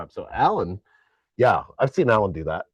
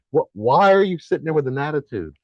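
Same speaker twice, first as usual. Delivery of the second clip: lightly voiced dog, higher and louder; scolding dog; 5 semitones higher, 5 dB louder than usual. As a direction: imitate a dog telling someone off. Voicing the dog's scolding.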